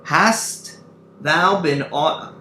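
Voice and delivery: high, loud put-on stage voice; emphatic, high declaimed voice; another character's voice. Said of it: "It's another voice speaking".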